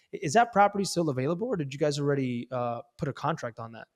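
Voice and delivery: casual, hesitant downward-inflected opener; calmer, downward inflection. Shown as a demonstration. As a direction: sound unsure and unhurried, little stumbles between phrases. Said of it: "a downward inflection and a calmer".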